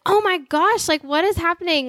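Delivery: high alarmed exclamation; shocked. Retold or imitated. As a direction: gasp it out in disbelief. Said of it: "so I was like".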